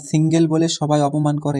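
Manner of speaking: laughing. Real, not acted. Host reacting to funny comment.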